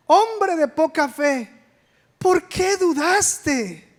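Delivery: a slow, lightly scolding Jesus; mild scolding. Retold or imitated. Jesus rebukes Peter for doubting, slow mild scolding. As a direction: drag it out like a gentle rebuke. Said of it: "lo estaba regañando".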